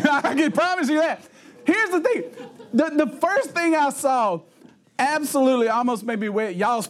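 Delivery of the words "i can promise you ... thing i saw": higher voice, words bubbling with real laughter; laughing while talking. Real, not acted. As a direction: push the words out through giggles. Laughing through his own story.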